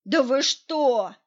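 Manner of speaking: медленно, громко и с нажимом; изобразить оскорблённое недоумение; возмущённо. A narrator's reading. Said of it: "возмутился Николай Сергеевич". (возмущённое медленное «да вы что»)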